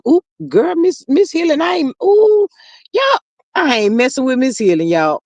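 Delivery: high, excited ooh. Real, not acted. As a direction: squeal over the comment. Reacting to a harsh comment.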